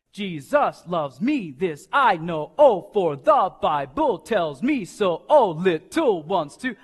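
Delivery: put-on groovy backbeat version of the children's song; accent on beats two and four. Shown as a demonstration. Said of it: "en el segundo y el cuarto".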